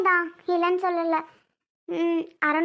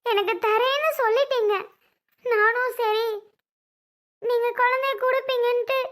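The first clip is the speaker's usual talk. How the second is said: tearful, slightly raised voice; weeping, demanding an answer; agitated crying; 3 semitones higher than usual. Acted. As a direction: plead in distress through tears. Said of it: "பதறாத, அழாத".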